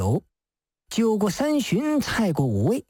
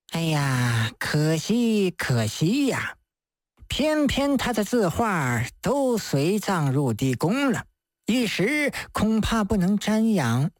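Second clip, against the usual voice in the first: regretful priest; 4 semitones lower than usual. Acted. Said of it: "真治皱着眉".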